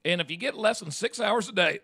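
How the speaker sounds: talking through a mouthful of taco; words round a bite of food; mouth full. Real, not acted. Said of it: "I got too much taco in my mouth".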